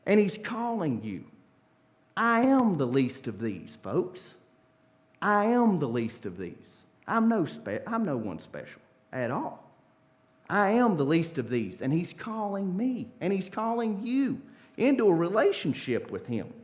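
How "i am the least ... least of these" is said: humble Jesus. Acted. Jesus voiced humbly in sermon.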